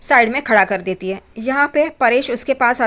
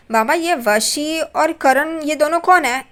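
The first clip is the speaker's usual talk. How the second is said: higher and slow, feigned naive puzzlement; mock innocent question; 4 semitones higher, slower than usual. The speaker teasing his father with a fake innocent question, slow and playful. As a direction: play dumb, drawing out each word for the joke. The speaker joking about a word.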